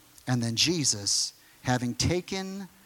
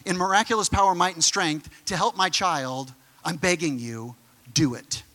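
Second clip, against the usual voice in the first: raised, urgent begging plea; a father pleading for his child; 3 semitones higher than usual. Retold or imitated. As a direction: beg like a desperate parent.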